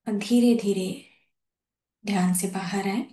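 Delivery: measured thanks in short, spaced phrases; guided meditation. Real, not acted. Host thanking masters and easing them out, guided meditation. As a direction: bring them out of meditation unhurriedly.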